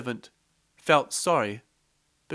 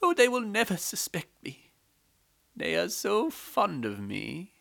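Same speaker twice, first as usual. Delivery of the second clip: high, confident maid voice; maidservant; 7 semitones higher than usual. A narrator's reading. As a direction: brush off any suspicion. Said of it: "The maidservant said".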